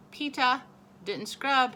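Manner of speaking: high, loud tattletale; tattling toddler. A narrator's reading. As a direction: tell on big brother, pleased.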